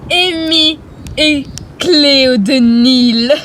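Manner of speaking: slow mocking greeting; sinister greeting. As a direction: savor their names. Villain greets heroines mockingly.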